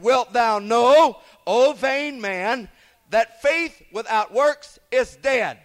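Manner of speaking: slow, solemn King James reading; scripture reading. Acted. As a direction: intone the verse deliberately. Reads scripture passage aloud.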